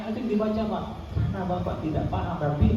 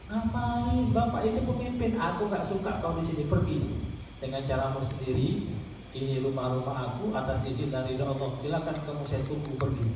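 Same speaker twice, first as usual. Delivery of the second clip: exorcism command; 6 semitones lower, 5 dB quieter than usual. Shown as a demonstration. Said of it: "kebanyakan orang masuk di dimensi jin".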